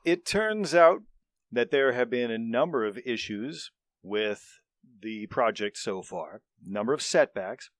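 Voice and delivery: loud, formal manager voice; pompous boss speech. Acted. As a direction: address the group like a pompous manager. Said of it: "leader speech".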